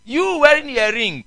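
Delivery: mock scolding preacher. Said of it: "somebody came to preach".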